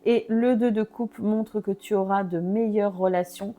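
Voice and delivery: talking through hiccups; hiccuping. Real, not acted. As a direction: hiccups breaking the words. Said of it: "Pardon, j'ai le hoquet".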